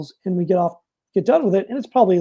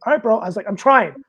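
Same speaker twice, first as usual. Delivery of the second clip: exasperated; 4 dB louder than usual. Retold or imitated. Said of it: "should have had better control of my emotions".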